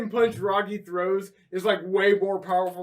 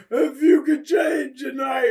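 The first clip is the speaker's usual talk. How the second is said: mock Rocky speech; 4 semitones higher, 3 dB louder, slower than usual. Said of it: "he said something about changing".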